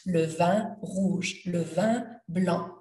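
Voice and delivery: "Le vin rouge, le vin blanc" slow, nasal "vin"; slow nasal "vin" demo; slow French demo. Shown as a demonstration. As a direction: model "le vin" slowly for learners. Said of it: "Let's say le vin".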